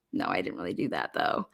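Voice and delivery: mock roommate denial. Vlogger voicing the roommate denying she screamed, low and soft. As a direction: play the roommate quietly brushing it off.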